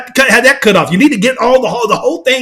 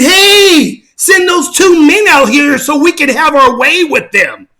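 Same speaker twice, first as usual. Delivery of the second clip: mob calling out; 4 semitones higher, slower than usual. Retold or imitated. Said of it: "were up there saying".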